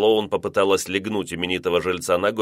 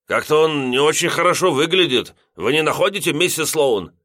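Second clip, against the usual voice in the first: put-on higher, foggy drunk man; tipsy observation; 7 semitones higher, 3 dB louder than usual. A narrator's reading. Lodger squinting at the lawn, lightly drunk. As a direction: wonder aloud like a tipsy lodger.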